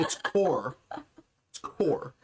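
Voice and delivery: core stressed with a full or sound; It's core, ending clear and firm. Shown as a demonstration. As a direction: make core land clearly. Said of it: "it is core".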